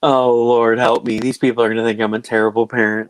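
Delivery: loud, hammed-up plea for help; mock dismay. Acted dismay at child swearing.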